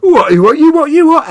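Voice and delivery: high, loud baffled "what, you, what"; mock total confusion, voice jumping up; bewildered squawk of what; confused what. Imitating confused listener.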